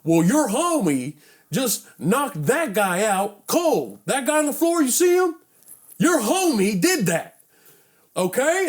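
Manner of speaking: put-on high, emphatic, drawn-out cop lecture with an accent; accented angry cop. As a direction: imitate an accented officer laying down the facts. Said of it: "he had, like, a accent".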